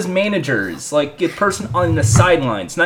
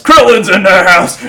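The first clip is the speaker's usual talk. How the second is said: narrator voice; 6 dB louder than usual. Retold or imitated. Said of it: "you wanted the narrator".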